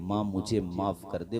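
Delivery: a hushed, gentle plea to mother; soft pleading. Acted. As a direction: say the plea softly and low. Soft quoted plea in story. (धीमी आवाज़ में माफ़ी की गुहार)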